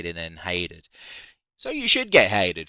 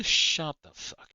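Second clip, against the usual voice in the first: laughing; 8 semitones higher than usual. Real, not acted. Laughing at own mockery.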